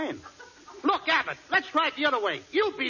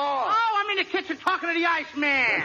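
high, singsong housewife call; high-pitched mock female voice; playing the girl; 7 semitones higher than usual. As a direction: call out as a put-on woman. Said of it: "you're the girl".

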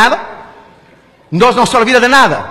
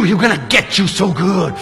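low, slow, softer threat; hammed-up ominous undertone; menacing taunt; 4 semitones lower, 4 dB quieter, slower than usual. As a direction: sink into a slow gloating warning. Preacher menaces man with hell.

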